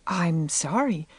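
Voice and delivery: slow, hesitant apology; faltering apology. A narrator's reading. Young teacher apologizing to an indignant parent, faltering. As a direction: falter slightly as you apologize. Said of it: "faltered Anne".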